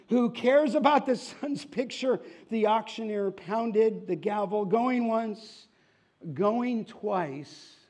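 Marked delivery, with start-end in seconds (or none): 0.1-2.2 high, loud scornful heckle; angry crowd. Acted. Angry crowd members heckle the auctioneer, high and loud. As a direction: scoff at the portrait from the crowd. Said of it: "the crowd's getting angry".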